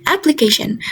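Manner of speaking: application with ca primary; stress on ca. Shown as a demonstration. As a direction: say application, ca strongest. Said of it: "secondary stress falls on the syllable A".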